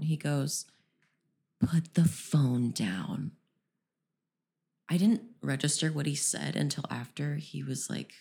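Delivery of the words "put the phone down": imitating a slow, hushed, condescending put-down; low, slow mock scold, half whispered. Stranger on the trail scolding her about her phone, condescending. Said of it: "in the most condescending tone".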